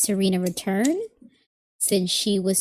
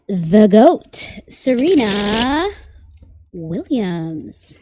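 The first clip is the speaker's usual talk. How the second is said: drawn-out, louder announcement of a star; grand introduction; 6 dB louder, much slower than usual. Real, not acted. Tarot reader introduces the goat Serena Williams to viewers, grand introduction. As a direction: announce the champion's name slowly, with emphasis.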